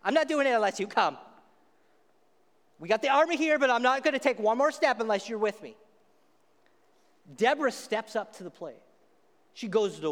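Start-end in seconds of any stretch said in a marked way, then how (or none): 0.0-5.8 insistent, a bit louder refusal; a reluctant warrior pleading to his leader, loud; stubborn Barak. Retold or imitated. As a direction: dig in your heels as Barak. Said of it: "That's, that's his voice in my head".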